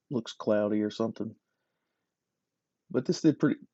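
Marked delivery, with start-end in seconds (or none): 2.9-3.6 interrupted by a hiccup; talking with the hiccups. Real, not acted. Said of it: "pardon me, got the hiccups".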